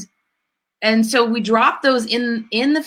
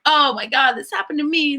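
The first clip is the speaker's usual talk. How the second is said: mock victim; 4 semitones higher than usual. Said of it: "reacting from the victim".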